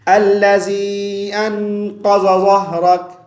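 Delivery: अल्लज़ी अनक़ज़ ज़हरक with plain Hindi ज sounds; common wrong reading. Shown as a demonstration. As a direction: recite it carelessly with light ज. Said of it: "आम तौर पर यूँ पढ़ देते हैं".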